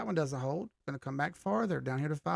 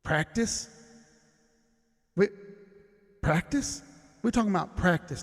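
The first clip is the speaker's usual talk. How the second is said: a hint of Allen Iverson's rant, a touch louder; mock press-conference outburst, only slightly louder than usual; Allen Iverson practice rant; 4 dB louder than usual. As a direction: lightly imitate Iverson's famous practice rant, pushing the repeated words. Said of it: "Allen Iverson said".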